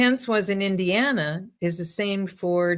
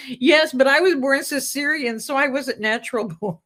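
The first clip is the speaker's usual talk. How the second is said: higher and fast, a lightly voiced young woman; girl student's voice; 6 semitones higher than usual. Joke student telling the professor, lightly voiced higher girlish tone. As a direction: quote the disappointed student in a lifted girlish voice. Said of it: "And she goes".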